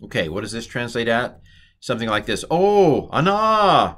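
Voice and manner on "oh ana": high, loud, drawn-out cry; acted interjection. Teacher acting out a Hebrew interjection, exaggerated loud cry. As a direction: wail it out as a mock exclamation.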